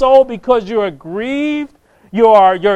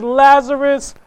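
raised, commanding call; preacher's ringing summons; crying out; 3 semitones higher, slower than usual. Acted. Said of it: "cries out with a loud voice".

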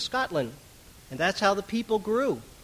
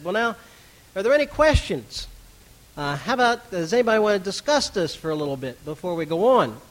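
slightly raised, louder call for questions; lightly acted invitation to the room; preacher opening discussion; 3 semitones higher, 6 dB louder than usual. Acts out opening questions after sermon.

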